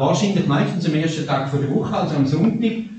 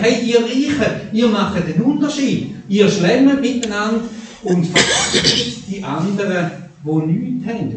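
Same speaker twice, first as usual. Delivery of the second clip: raised voice, chiding the rich; Paul scolding; 5 semitones higher than usual. Retold or imitated. Paul rebukes the rich at the supper, raised chiding. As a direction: call out the feasting rich. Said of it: "Und er schimpft und sagt".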